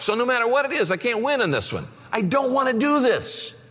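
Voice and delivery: high, rising protest to God; pleading with God. Retold or imitated. Pastor arguing with God about announcing his gift, high protest. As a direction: beg to be let off, voice climbing high.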